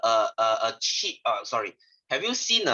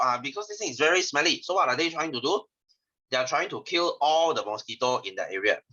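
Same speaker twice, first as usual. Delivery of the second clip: talking with a swollen tongue; words thick from a sore tongue; 2 semitones higher than usual. Real, not acted. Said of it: "my tongue is swollen already".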